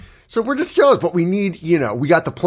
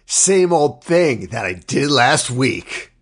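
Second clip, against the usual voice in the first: casual villain; 2 semitones lower, much slower than usual. Retold or imitated. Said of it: "And he's like".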